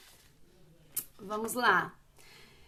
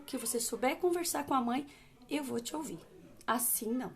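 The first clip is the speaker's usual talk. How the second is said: firm steady tone. Shown as a demonstration. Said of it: "Firme nesse tom de voz e não muda".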